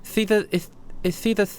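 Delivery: a touch of shock catching in her throat; startled recognition. Acted. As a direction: Heather hearing her friend's name. Heather shocked at the name.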